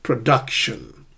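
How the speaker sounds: "Production" slow, DUC strong; middle-stressed "Production"; second-syllable stress. Shown as a demonstration. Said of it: "the second".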